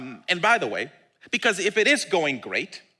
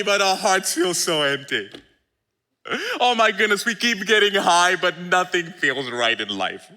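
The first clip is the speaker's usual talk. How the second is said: mock despairing confession; weary confession; 3 dB louder than usual. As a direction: own up to the emptiness. Voicing weary people answering Jesus.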